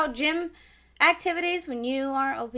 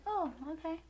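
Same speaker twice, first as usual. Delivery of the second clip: meek fake politeness; 4 semitones higher, 14 dB quieter than usual. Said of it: "externally, I was just like".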